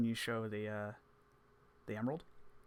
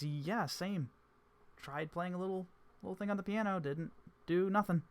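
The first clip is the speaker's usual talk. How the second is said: Selka voice; 8 semitones higher, 4 dB louder than usual. Acted. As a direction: shrug it off.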